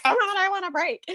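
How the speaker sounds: half-hearted yell of frustration; mild yell at TV. Retold or imitated. Retelling yelling at the TV for a break, mock yell. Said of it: "I may have yelled a little bit at the T V".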